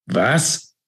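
a high, startled cry of disbelief; a sudden outraged shout, voice jumping up. A narrator's reading. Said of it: "schrie David".

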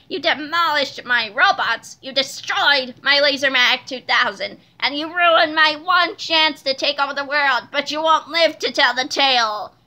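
emphatic villain's rant in a put-on voice; menacing villain. A narrator's reading. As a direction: rant accusingly, building to a threat. Enraged villain threatens the heroes.

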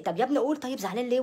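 mock exasperated coaxing; retold coaxing. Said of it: "بتحايل عليه".

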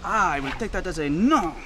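put-on French accent. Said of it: "Mike, what was that accent?".

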